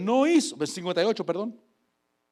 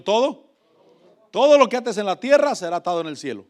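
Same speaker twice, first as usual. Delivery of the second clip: louder, pressing on todo; loud call and response; 3 semitones higher, 6 dB louder than usual. Shown as a demonstration. Preacher leads the church in a loud repeat. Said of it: "diga conmigo".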